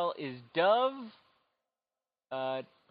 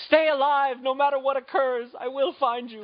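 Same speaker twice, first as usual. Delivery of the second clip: louder, higher heroic line; hammed-up dramatic vow; 7 semitones higher, 4 dB louder than usual. Host voicing Chris as an action hero, loud and dramatic. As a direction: play it like a movie hero's promise. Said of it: "Chris is just like".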